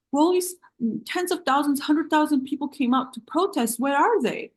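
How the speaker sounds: mocking. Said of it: "she tried to be like".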